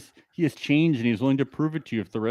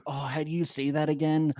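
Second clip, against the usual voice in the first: confused learner; 3 semitones higher, 4 dB quieter than usual. Retold or imitated. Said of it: "Yeah, he's like".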